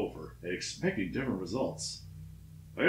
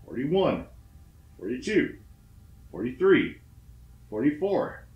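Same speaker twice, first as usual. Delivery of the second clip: joyful counting; 3 semitones higher, 3 dB louder than usual. Retold or imitated. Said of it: "I joyfully counted them aloud".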